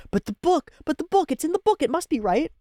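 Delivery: mock whiny insistence. Reactor voicing the book-loving mage, mock whiny. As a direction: whine it like a stubborn know-it-all.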